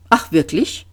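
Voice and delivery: put-on mildly friendly old man; a touch of kindly interest; understated, amiable question back. A narrator's reading. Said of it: "fragte der Alte freundlich zurück".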